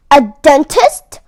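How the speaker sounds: loud incredulous bark; mock-outraged boss elf; barked question. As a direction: bark it back in disbelief. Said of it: "barked the boss elf".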